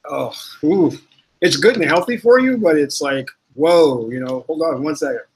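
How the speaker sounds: reacting to raw garlic burn, mouth on fire. Real, not acted. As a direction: talk through a burning mouth. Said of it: "my mouth is on fire".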